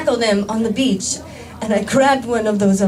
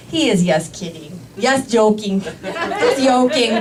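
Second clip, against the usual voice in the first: mock reassurance. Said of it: "I would go".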